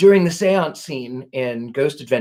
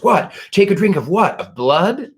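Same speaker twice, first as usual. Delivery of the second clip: higher-pitched retold disbelief; mock bafflement; 4 semitones higher than usual. Host retelling Zach's reply to the spirit, mock bafflement. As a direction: play up the puzzled question, lightly.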